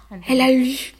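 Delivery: high, loud burst of joy; joyful. Retold or imitated. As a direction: cry it out in delighted disbelief. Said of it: "une espèce de joie".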